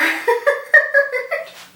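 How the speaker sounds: a high burst of real laughter. Real, not acted. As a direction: laugh out loud at how awkward it is. Laughing at awkward scene.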